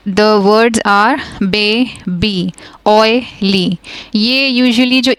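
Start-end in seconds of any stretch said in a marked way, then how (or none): 1.4-3.8 put-on "baby, oily" as "bay... bee, oy... lee"; split into syllables. Shown as a demonstration. Teacher gives words ending in long E, "baby, oily" syllable by syllable. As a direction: pause inside "baby" and "oily", each in two beats. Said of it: "जब two syllable words होंगे".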